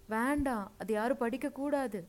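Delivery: high, loud protest; desperate pleading. A narrator's reading. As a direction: beg them to stop. Aunt begging nobody read her diary.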